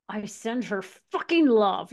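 slow, venom-laced retold blessing; retold anger, drawn out; venomous anger. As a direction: spit the kind words with venom. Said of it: "with so much venom and so much anger".

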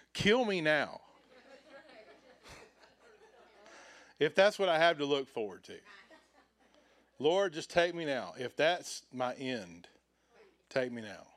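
loud, hammed-up plea to be taken; mock despair. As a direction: cry out to the Lord in theatrical dismay. Mock despair after old man.

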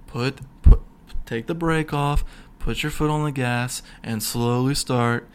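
unhurried, measured instructor voice; mock calm. Driving instructor to nervous student, mock calm. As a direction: imitate a patient driving teacher. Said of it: "And he's so calm".

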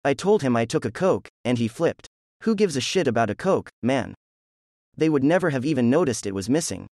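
a friend ranting too loudly about the cop; getting loud. A narrator's reading. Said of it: "He caught himself".

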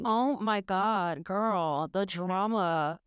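slow, drawn-out mock shock; teasing friend hamming up the drama; mock dramatic. Real, not acted. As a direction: savour each word like juicy gossip.

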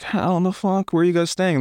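high, stunned question; mock shock. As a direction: blurt it out in disbelief. Disbelief at rich girls.

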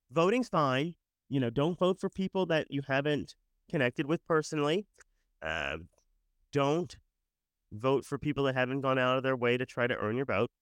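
sniffly stuffy nose. Real, not acted. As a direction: talk through a sniffly, blocked nose. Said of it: "Sorry, I'm sniffly still".

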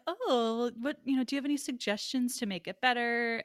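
lightly condescending imitation, feigning interest in her view; patronizing. Filmmaker asking her for suggestions, patronizing. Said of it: "he's patronizing".

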